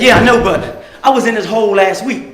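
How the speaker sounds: calm quiet reassurance. Retold or imitated. Rescuer answers calmly.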